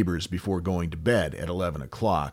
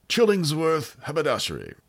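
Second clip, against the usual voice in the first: lightly voiced shopkeeper with a higher pitch; Chillingsworth; 7 semitones higher than usual. Host playing an imagined haberdashery owner, lightly put-on voice. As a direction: attempt at a put-on shop owner's voice. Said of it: "trying to do a Chillingsworth voice".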